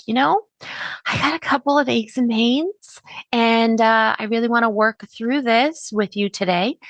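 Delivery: understated concern, confiding a problem; mildly concerned inflection. Shown as a demonstration. Client telling the Reiki person about aches, mildly concerned. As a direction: bring up something you need to talk about. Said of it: "That's more of a concerning".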